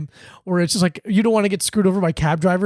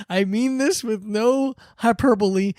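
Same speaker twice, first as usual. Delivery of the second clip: imitating Brian Regan; 3 semitones higher, slower than usual. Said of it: "he's like".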